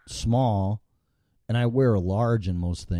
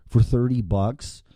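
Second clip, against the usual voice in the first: angry customer rant; 3 semitones higher than usual. Pretend. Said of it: "Sincerely, an asshole customer".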